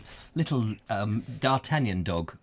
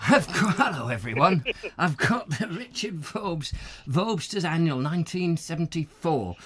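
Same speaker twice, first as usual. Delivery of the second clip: Peter Lowry impression; 3 semitones higher than usual. Host mimics presenter opening the Vobsters Annual, put-on voice. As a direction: launch into a mimicked presenter's greeting. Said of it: "what is it you say, Peter?".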